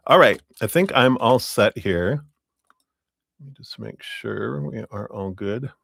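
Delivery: talking while crunching a lozenge; words around a crunching throat lozenge. Real, not acted. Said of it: "I'm crunching my little throat lozenge here".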